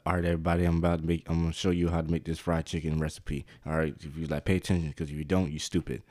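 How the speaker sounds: deadpan low recipe host; cooking video host parody. Pretend. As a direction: parody a crude TikTok cook. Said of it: "recreate these TikTok food videos".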